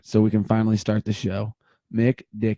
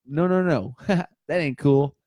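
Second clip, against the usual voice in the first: Uncle Steve-O; 3 semitones higher than usual. Pretend. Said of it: "old Uncle Steve-O says".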